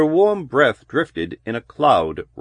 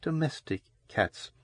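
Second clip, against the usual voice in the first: trembling whisper; 4 semitones higher, 11 dB quieter than usual. A narrator's reading. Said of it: "Loris whispered shakily".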